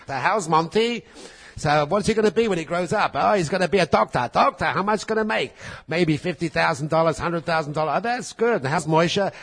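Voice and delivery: chatty mock gossip about the boys' earnings; a hint of nosy relatives comparing sons.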